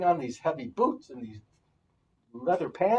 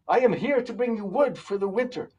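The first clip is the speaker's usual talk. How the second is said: hearty call; 6 semitones higher, 7 dB louder than usual. Acted. Woodsman offers wood.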